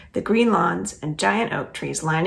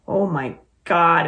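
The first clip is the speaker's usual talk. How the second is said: snickering; 5 dB louder, slower than usual. Acted. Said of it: "it snickers".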